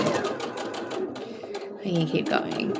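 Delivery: drawn-out whispered reminder; voiceless, stretched self-reminder; slow whisper to self. Real, not acted. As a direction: murmur it to yourself, very slowly. Repeating the reminder to herself.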